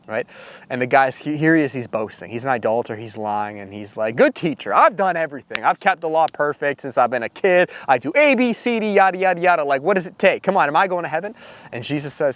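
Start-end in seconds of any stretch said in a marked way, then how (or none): 4.2-11.3 boastful pleading. Retold or imitated. Rich young ruler boasts to Jesus.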